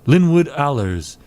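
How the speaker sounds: distressed client. Acted. Client begs detective to look into cousin's death, distressed. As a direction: plead for help over a killed cousin.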